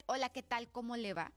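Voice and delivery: curt, annoyed hello with a firm first word; firm, displeased greeting, pitch held down; angry greeting. Shown as a demonstration. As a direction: greet them as if cross with them. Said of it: "pensaría que estoy enojada".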